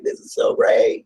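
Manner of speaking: slow, breathy burst of excitement; excited outburst. Retold or imitated. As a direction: let the joy burst out of you, slowly. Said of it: "I get super excited".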